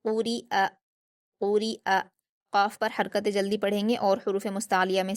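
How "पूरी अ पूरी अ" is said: पूरी अ with a distinct glottal hamza on अ; clear hamza. Shown as a demonstration. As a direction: sound the final अ of पूरी अ as a clear hamza, not a ya. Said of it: "आवाज़ को हमज़ा की तरह ही अदा करेंगे".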